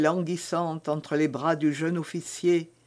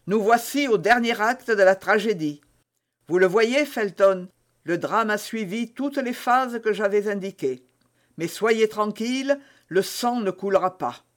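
mocking; 4 semitones higher than usual. Baron mocks the lovers.

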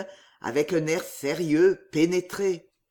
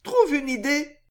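high coaxing woman's voice; Riquette; 7 semitones higher than usual. Acted. Riquette prodding Riquet to find a way, high and urging. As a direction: urge it, pitched up. Riquette urges her lover.

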